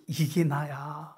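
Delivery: very slow, weighty declaration; God revealing himself, slow and grave; slow solemn reveal. Acted. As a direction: lay each word down slowly.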